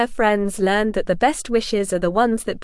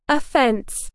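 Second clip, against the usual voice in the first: shouting; 3 semitones higher than usual. Acted. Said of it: "she shouted".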